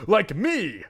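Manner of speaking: loud, high gleeful outburst; mock confession. Mother's joke aside about deceitful people, loud blurt. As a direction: blurt it out, hammed-up.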